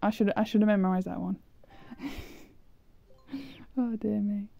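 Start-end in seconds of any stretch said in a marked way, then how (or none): 3.8-4.5 words pushed through whistling teeth. Real, not acted. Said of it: "Just whistling through my teeth".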